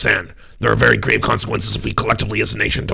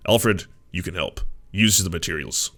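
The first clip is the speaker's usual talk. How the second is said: lower, cartoon-hero Batman voice; animated Batman voice; 4 semitones lower, 5 dB quieter than usual. Shown as a demonstration. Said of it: "that's my favorite Batman voice".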